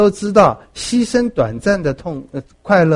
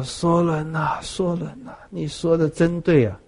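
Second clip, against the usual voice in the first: lament at the stake; 6 dB quieter than usual. Retold or imitated. Condemned king softly calling Solon's name. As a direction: murmur it as a man about to die.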